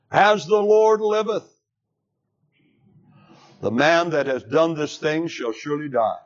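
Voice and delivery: enraged King David swears death on the rich man; David's angry oath. Acted. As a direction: thunder out the oath, then press on. David stands up, anger kindled.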